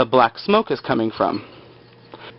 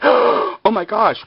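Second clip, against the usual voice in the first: higher, drawn-out oh my gosh; slow gasped surprise; 8 semitones higher, much slower than usual. Retold or imitated. Viewer reacting to Claire's sudden memory, slow shock. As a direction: let the shock sink in slowly. Gasp at realization.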